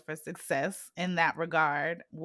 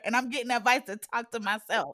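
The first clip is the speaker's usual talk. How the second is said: laughing through it; 3 semitones higher than usual. Real, not acted. Laughing at irony of advice.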